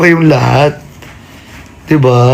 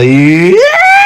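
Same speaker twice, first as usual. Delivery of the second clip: happy yell; 14 semitones higher than usual. Real, not acted. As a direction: shout it out. Sudden yell.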